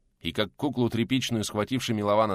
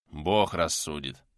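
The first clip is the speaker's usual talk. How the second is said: hissed through coughs; 5 semitones lower, slower than usual. Acted. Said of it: "сквозь кашель прошипел Милован".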